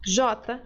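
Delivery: the letter said like zh in Portuguese j; Y sounded as J. Shown as a demonstration. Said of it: "pode ser".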